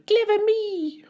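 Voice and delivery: high little whisper; tiny gleeful whisper; murmured. A narrator's reading. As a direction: whisper it to yourself, pleased.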